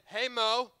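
loud, bright call back to the crowd; call-and-response shout. Pretend. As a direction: shout it out with the congregation. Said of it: "Everybody say".

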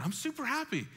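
a contented person bragging, hammed-up cheer; mock beaming happy. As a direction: smile through the words, hammed-up joy. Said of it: "let's smile again".

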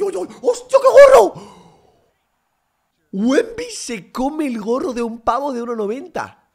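screaming in disbelief at the block; ecstatic shout. Real, not acted. Huge block by Wemby. (grito eufórico por el tapón)

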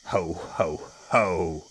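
slow, spoken-out ho-ho laugh; big crocodile's scoffing laugh; hearty mock laugh. A narrator's reading. Enormous crocodile laughing at the smaller one, mock hearty. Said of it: "cried the enormous crocodile".

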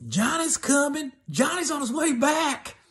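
high, hushed neighbor tipping her off; urgent warning. Retold or imitated. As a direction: sound the alarm that he's coming. Neighbor warns her Johnny's coming.

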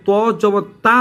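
তা with open aa after heavy ত; wrong vowel demo. Shown as a demonstration. Teacher showing students the mistake, wrong open vowel. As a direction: end on a thin, open তা. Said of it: "আকার দেন তাহলে আপনার পড়া হচ্ছে না".

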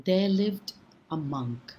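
unhurried storyteller reading a fable aloud; story narration. A narrator's reading. Storyteller telling children a fable, calm and measured. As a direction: draw listeners into an old tale.

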